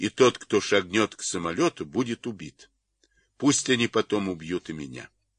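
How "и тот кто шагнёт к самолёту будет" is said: usual speaking voice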